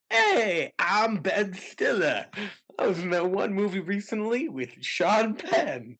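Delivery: lightly voiced Ben Stiller; Ben Stiller impression. Doing Ben Stiller for a laughing friend. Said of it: "let me do Ben Stiller".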